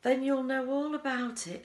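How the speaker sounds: triumphant. A narrator's reading. Wonka retorts.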